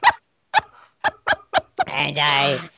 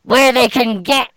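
higher gargoyle rambling on; 6 semitones higher, 3 dB louder than usual. Acted. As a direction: keep the ominous gargoyle going. Gargoyle warning continues.

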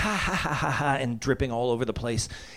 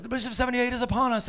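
dramatic announcement; 10 semitones higher, faster than usual. Retold or imitated. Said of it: "they were like".

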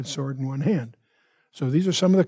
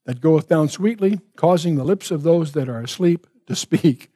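scripture reading. Acted. Teacher reading Song of Songs to the class, fervent scripture reading. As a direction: read the Bible passage out with warmth and lift. Reads scripture passage aloud.

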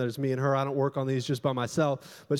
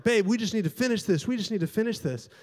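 higher-pitched, retold frustrated pleading; 6 semitones higher than usual. Husband interrupted during sermon prep pleads with wife, mock frustration. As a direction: press the point, then ease off in volume. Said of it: "and so I'm getting frustrated".

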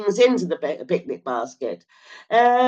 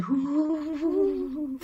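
high, eerie wind-ghost whoo; ghostly whoo; 7 semitones higher, 6 dB quieter than usual. Pretend. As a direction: moan like a spooky wind. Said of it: "It sounds a bit like a ghost".

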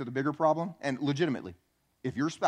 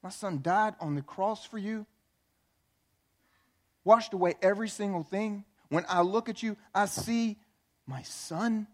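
tender voice of God; 4 semitones higher than usual. Retold or imitated. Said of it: "God looks down and goes".

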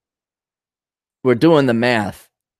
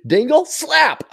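laughing; slower than usual. Real, not acted. Laughing at the prank.

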